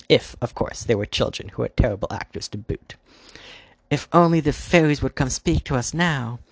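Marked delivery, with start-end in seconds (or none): 3.9-6.4 high and loud, projected outward; almost shouting. A narrator's reading. Dark Queen calling to the unseen fairies, nearly shouting. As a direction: call it out for hidden listeners. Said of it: "so loudly she was almost shouting".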